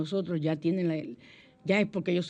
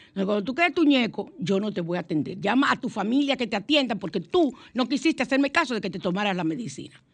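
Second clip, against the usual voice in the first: mock threat; 2 semitones higher, 5 dB louder than usual. Wife threatening husband to take pill.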